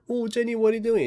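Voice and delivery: high-pitched mock-alarmed question; alarmed protest. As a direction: act out protesting at a pointed gun. Pleading as gun is pointed, retold.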